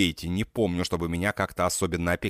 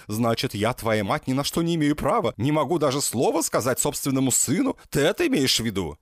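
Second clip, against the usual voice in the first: plain reading voice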